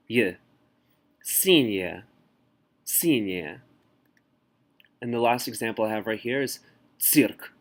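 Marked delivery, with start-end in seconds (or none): 1.2-3.6 Синяя stressed on the front with a weak ending; reduced unstressed ya. Shown as a demonstration. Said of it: "unstressed ya is pronounced more like y".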